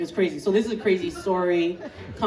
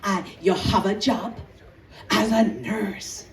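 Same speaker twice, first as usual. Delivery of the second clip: put-on scolding Jamaican accent, building louder; emphatic Jamaican-accented scolding; Jamaican mother; 3 semitones higher, 5 dB louder than usual. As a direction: lecture like a Jamaican mom, rising to loud. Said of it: "My mom, she'd be like".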